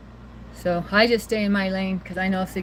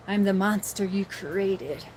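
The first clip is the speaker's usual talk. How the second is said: a hint of a slow, quieter monster, lightly voiced; mock monster voice; 2 semitones lower, 4 dB quieter, slower than usual. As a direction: lightly play Frankenstein's monster, slowly. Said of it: "like Frankenstein's monster telling Frankenstein".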